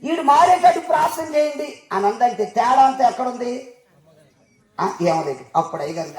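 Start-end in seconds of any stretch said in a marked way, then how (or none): 0.0-1.8 mimicking wife. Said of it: "అన్నట్టు".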